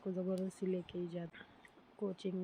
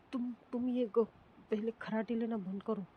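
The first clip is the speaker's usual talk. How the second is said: angry; 2 semitones higher, 4 dB louder than usual. Acted. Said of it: "समीक्षा को इतना गुस्सा आता है".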